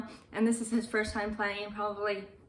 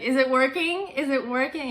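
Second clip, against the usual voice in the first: excited; 4 semitones higher, 6 dB louder than usual. Retold or imitated. Lisa checking the revived monster.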